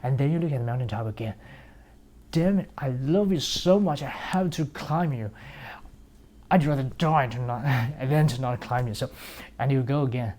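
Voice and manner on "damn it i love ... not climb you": yearning plea. Acted. Pleading love to the mountain.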